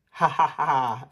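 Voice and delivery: bright acted laugh; everyone laughing. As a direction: laugh along with the family. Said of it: "Everyone laughs".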